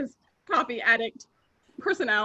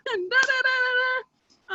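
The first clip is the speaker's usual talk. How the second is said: mock yelling; 10 semitones higher, slower than usual. Mark yelling during brick break.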